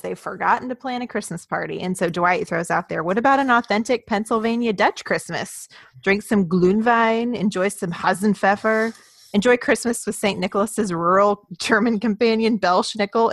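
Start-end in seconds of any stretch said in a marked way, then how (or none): 3.0-13.3 excited. Retold or imitated. Quoting Dwight's pitch.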